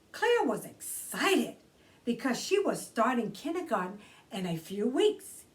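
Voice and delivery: put-on bright read-aloud for children; gentle children's book narration; storybook reading. A narrator's reading. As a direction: read it like story time for kids. Reads picture book aloud.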